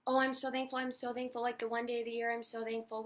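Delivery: a touch of mock gushing; mocking thankful post. Mocking strangers who snubbed her on Thanksgiving, mildly gushing. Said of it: "You're gonna post how you're so thankful".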